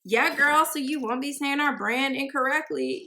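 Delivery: a hint of a scolding girlfriend; imagined brand reply. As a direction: playfully imitate a brand telling her off. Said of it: "They're probably like".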